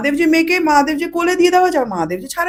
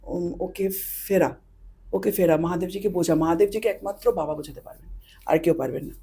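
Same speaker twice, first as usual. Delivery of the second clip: 1 soft pleading; 6 semitones lower, 10 dB quieter than usual. Retold or imitated. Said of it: "আমি বলছি".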